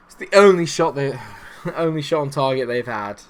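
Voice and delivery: words broken by rueful laughter; laughing in disbelief. Real, not acted. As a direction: laugh at how absurd it is. Conceding a goal, laughing in despair.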